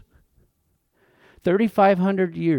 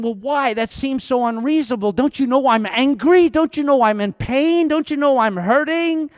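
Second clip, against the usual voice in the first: rising, louder protest to God, building; pleading complaint; 5 semitones higher, 4 dB louder than usual. Retold or imitated. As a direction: whine it out as if hurt and angry.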